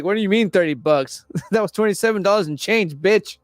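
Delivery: mock shopkeeper voice broken by laughter; laughing while quoting. Retelling the shop owner mocking the girl, laughing through it. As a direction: giggle through the quote.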